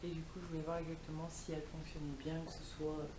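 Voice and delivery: vocal fry; low, croaky vocal fry; morning voice. Real, not acted. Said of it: "j'ai ma voix du matin".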